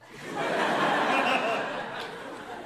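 high, breathy burst of laughter; big laugh. Real, not acted. Laughing at his own story.

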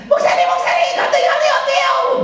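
high frantic shouting plea; panicked mother. Retold or imitated. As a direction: cry out to the pastor in a panic. Panicked mother calls pastor at night. (한밤중 목사에게 다급하게 외치는 엄마)

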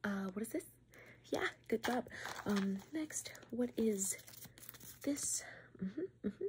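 breathy close-mic whisper for the viewer. Acted. ASMR host whispers a smell test to the viewer.

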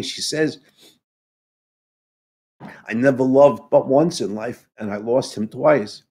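trying to get through it without crying; choked up. Real, not acted. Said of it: "I get all choked up when I discuss this".

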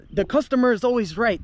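an arrogant, lecturing retort; imitating an entitled customer. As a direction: lay down the rule like a spoiled customer. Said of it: "That's what the Russian guy's telling him".

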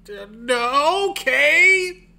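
reluctant okay. Retold or imitated. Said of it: "And I'm like".

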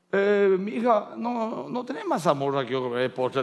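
slow, hesitant start, then easing down; mock oblivious husband. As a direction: play a husband who ignored the scolding. Father oblivious after wife's scolding. (marido despistado, con arranque lento y titubeante)

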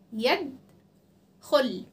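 "يد خل" as two separate words, each stopped on its last letter; stop on final consonants. Shown as a demonstration. Teacher showing where she stopped, firm final consonants. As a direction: land on the د, pause, then land on the ل. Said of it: "وقفت على الدال وعلى اللام".

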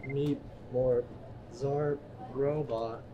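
half-hearted robot voice, very slow; flat mumbled robot beeps. Acted. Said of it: "That's a terrible robot voice".

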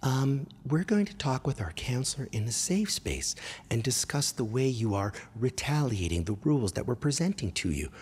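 mock counselor-speak, lightly put-on voice; modern gentle parent. Mocking today's parents explaining to a child, mild put-on politeness. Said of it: "There was no today's parenting".

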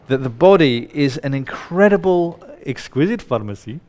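playfully exaggerated Indian accent; Deepak Chopra. Speaker mimics a famous lecturer for the audience, hammed-up Indian accent. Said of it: "he would say".

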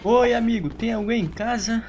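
playful calling out. Pretend. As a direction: call to a friend indoors, playfully. Calls out to hiding player in game. (chamando o amigo de brincadeira, voz levemente alta)

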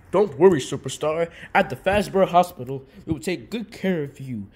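loud, falsely soothing nurse; calm him while hiding something; mock reassuring nurse. Hospital nurse reassuring the burned Superstar, mock soothing.

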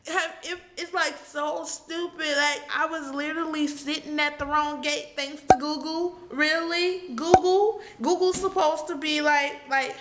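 high-pitched, upset retelling; really on the edge of crying; choked up with frustration; near tears. Real, not acted. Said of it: "crying thinking about it now".

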